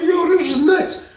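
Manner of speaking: high, laughing disbelief; real laugh at the story. Real, not acted. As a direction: laugh through the words.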